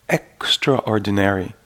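EXTRAORDINARY said slowly, as extra and ordinary; split word. Shown as a demonstration. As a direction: draw out extraordinary in two parts, extra, ordinary. Introduces word split in two.

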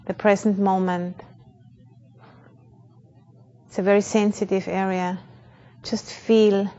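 calm, measured meditation guide with long pauses; unhurried, even-toned meditation instruction; guided meditation. Real, not acted. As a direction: guide a group gently into awareness, leaving space between phrases.

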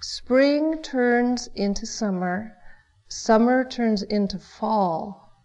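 slow, gentle chanted lines; slow song recitation. Acted. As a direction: recite it slowly like an old song. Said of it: "It goes".

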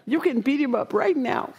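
hyped-up rallying cry. Retold or imitated.

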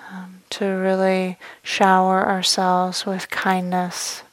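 calm meditation guidance with long, unhurried pauses; measured meditation voice, letting each phrase settle; guided meditation. Real, not acted. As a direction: guide them gently inward, leaving space after each phrase.

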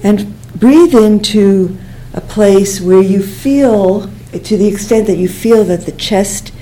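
unhurried breathing-exercise guidance with long pauses; guided meditation. Real, not acted. Teacher guiding students to breathe into the chest, calm meditation voice. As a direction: guide them gently through the breath, leaving space.

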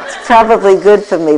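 laughing it off, a little embarrassed. Real, not acted. Admitting the prank to listeners, laughing. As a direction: chuckle through the line.

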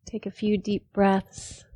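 unhurried phrases with long pauses between; measured meditation-teacher delivery; guided meditation. Real, not acted. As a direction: calmly guide them into the body, leaving space after each phrase.

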